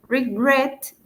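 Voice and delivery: regret lifted on its last syllable, "re-GRET"; stress on final syllable. Shown as a demonstration. English teacher demonstrates the accent at the end, regret stressed on -gret. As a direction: raise and lean on GRET in regret. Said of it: "esa acentuación está al final".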